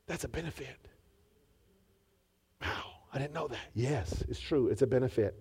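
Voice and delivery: very soft; hushed. Retold or imitated. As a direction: drop almost to nothing. Hushed dialogue voicing.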